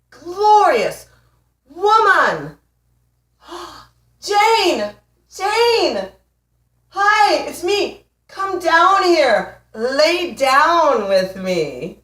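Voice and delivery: high, loud, stretched-out calls of Jane; a lovesick man calling up to the sky, overdone and pleading; hammed-up smitten man. Ex spots woman riding across the sky, mock lovesick high loud calling. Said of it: "he goes".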